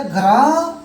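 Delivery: ग्रामर cut into ग्रा, held and rising, then मर after a pause; split into syllables. Shown as a demonstration. Teacher counting the parts for students, ग्रामर split syllable by syllable. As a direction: pull ग्रामर apart at the middle. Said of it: "इसमें हम दो बार जुबान को उठाते हैं".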